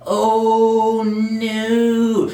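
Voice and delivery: high, loud mock panic; a sudden sinking "oh no"; dread. Comic realizing he drank gasoline, high panicked gasp.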